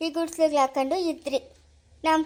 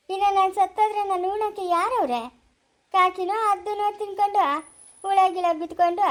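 high, plaintive grieving complaint; plaintive lament; 5 semitones higher than usual. Acted. Widow pictures her lonely death to the child, plaintive lament. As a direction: lament it in a raised pitch.

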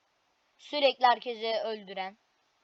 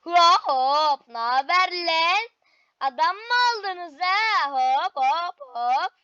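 cool entrance; 3 semitones higher, 5 dB louder, much slower than usual. Pretend. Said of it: "havalı giriş denemesi bir".

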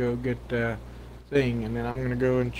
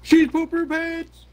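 much higher and louder stubborn yell; loud insisting; 6 dB louder than usual. Real, not acted. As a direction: shout it back to win the argument. Insisting against denial.

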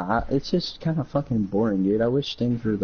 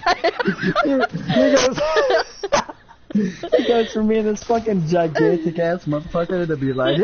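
high squeals through words; can barely talk for laughing; laughing hard; 9 semitones higher than usual. Real, not acted. Describing a friend's laugh, laughing hard.

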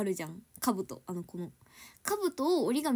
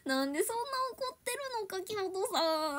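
imitating teacher; 9 semitones higher, 3 dB quieter than usual. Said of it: "先生が".

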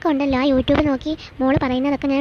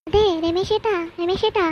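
calling out; 3 semitones higher than usual. Acted. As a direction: call him from the other room. Calling her husband from afar.

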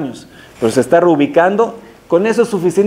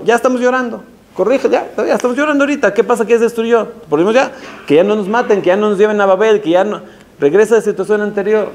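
rising insistent preaching; 4 semitones higher, faster than usual. Real, not acted. Preacher pressing a rhetorical challenge.

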